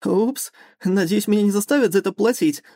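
too jolly for a crash; overly cheerful. Acted. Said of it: "излишне весёлый голос пилота".

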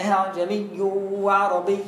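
low recited "أعجمي وعربي" with h-tinged second hamza. Shown as a demonstration. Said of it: "ووطي صوته كده".

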